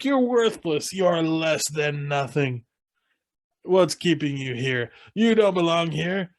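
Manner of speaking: mock drill sergeant yelling, high bursts and slow stretches. Podcast host imitating Mike Myers berating Farley, mock drill sergeant. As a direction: bark insults at a failing recruit, half-playful. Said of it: "drill sergeant, like, yelling at him".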